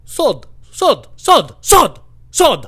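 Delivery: loud, high one-word bursts; odd store customer. Retold or imitated. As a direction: blurt it high like a baffling customer. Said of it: "this guy came up to me".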